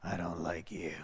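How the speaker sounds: very low, deep growling man's voice from a woman; demonic male voice. Retold or imitated. Possessed woman threatening the pastor, deep low male voice. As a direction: growl it low like a demon speaking through her. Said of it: "this woman speaks in a male voice".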